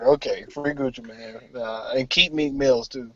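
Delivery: slow, laughing call-out; laughing shout. Real, not acted.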